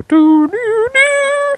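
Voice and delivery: high, slow sung beeps; imitated phone tones. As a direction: sing the three error tones. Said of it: "not even a funny doo-doo-doo".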